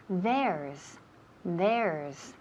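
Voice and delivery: THERE'S as one syllable, low and falling; contraction model. Shown as a demonstration. Teacher modelling a contraction for the student, clear low delivery. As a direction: say "There's" joined up, clear final s. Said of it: "La contracción".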